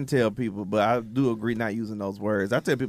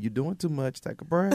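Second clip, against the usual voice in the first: sassy rebuke; 4 semitones higher, 4 dB quieter than usual. Retold or imitated. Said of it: "we tell you in a minute".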